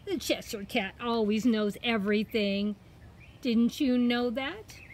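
a hint of smug cat; lightly voiced boast with a smile; Cheshire Cat. Cat boasts to girl that it knows everything, smug. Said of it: "he's put a big smile".

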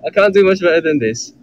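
attempted British accent. Friend challenged to an accent battle, reluctant British accent. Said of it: "do a British accent right now".

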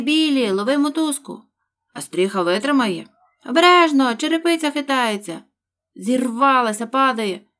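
loud hurried shouts; excited crowd. Acted. Workers with ladders shouting to each other, loud. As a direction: call out over the commotion, loud.

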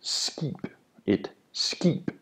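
"skib" soft with the K said like G. Shown as a demonstration. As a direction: breathe "skib" with a G. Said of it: "this is a G sound".

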